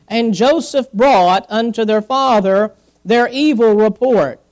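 measured Bible reading to listeners; scripture reading. Acted. Preacher reading Genesis to the congregation, measured scripture reading. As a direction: read the verse out with weight on key words.

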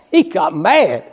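a chuckle, then he got mad said slowly; laughing. Real, not acted. Preacher chuckling to the congregation about the angry son, laughing.

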